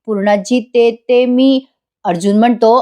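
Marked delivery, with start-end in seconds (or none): 0.6-1.6 slow, halting stammer over each word. Retold or imitated. Priya caught out by the family, stammering slowly. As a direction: stumble on the words like someone caught out. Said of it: "ततपप करायला लागते".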